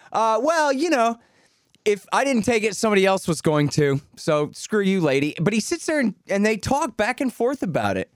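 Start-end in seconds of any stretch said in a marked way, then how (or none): 0.1-5.3 lightly put-on New York accent, higher at first; offhand mock New York accent. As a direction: shrug it off like a brazen New Yorker. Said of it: "in a New York accent".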